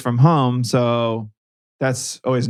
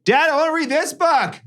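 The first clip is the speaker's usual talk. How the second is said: put-on high little boy pleading for a book; a son's eager high voice; child's voice. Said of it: "he's just like".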